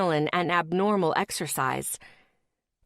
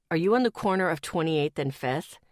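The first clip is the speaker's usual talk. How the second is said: lightly voiced boyfriend; 3 semitones lower than usual. Boyfriend's voice on phone.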